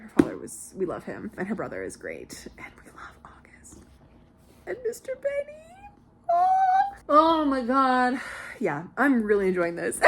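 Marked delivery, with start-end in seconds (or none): 1.4-3.8 soft unvoiced whisper. Real, not acted. Whispered fan aside. 4.6-8.2 high, slow swoony gasp; swooning squeal. Real, not acted. Swooning over a character.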